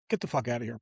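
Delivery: low, hushed, can't-believe-it curse; stunned disbelief. Retold or imitated. A stunned man hearing of a huge gift, low hushed disbelief. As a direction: breathe it out, floored by the news. Stunned at the fifty thousand offer.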